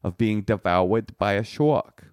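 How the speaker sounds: put-on slow, clumsy South African accent; bad South African accent. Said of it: "your South African accent is bad".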